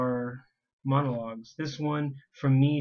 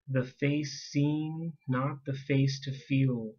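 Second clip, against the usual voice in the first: slow poetry reading with drawn-out phrases; poem recitation; slower than usual. Acted. Poet reading an ode to drugs, slow poem recitation. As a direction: set each image apart with pauses. Reads own poem aloud.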